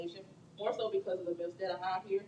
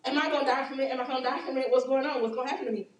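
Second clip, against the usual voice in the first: louder, higher frightened questions; anxious patient; 4 semitones higher, 6 dB louder, faster than usual. Retold or imitated. Nervous patient asking a nurse if the shot kills, anxious. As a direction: play a scared patient at the hospital.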